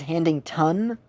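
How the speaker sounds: "Handington" ending in a full "tun". Retold or imitated. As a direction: stress out the last syllable of "Handington" as "tun". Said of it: "usually people get it as Handington".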